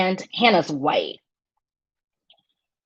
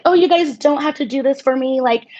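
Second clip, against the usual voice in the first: lightly raised, gracious imitation; Hannah's gracious voice; 5 semitones higher than usual. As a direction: imitate her humble brushing off. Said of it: "she even said".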